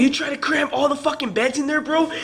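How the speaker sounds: high-pitched indignant challenge; imitated rant, incredulous; retold going off. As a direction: replay an exasperated telling-off. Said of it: "started going off a little bit".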